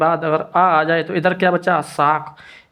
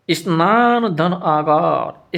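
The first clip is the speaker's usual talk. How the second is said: slow dictation; much slower than usual. Shown as a demonstration. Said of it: "teacher dictating the parts".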